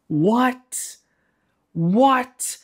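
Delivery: high-pitched, baffled "what?"; incredulous outburst. Acted. Reviewer reacting to Alicent and Criston at it again, incredulous. Reacting to a repeated shock scene.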